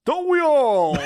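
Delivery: loud, high comic shout; mock outburst. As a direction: cry it out as a shared longing. Mock outburst at a big wish.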